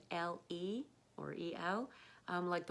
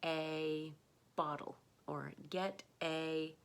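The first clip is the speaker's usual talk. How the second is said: slowly spaced words; slow demo; slower than usual. Shown as a demonstration. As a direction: stretch each word out for the learner. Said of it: "also in phrases like".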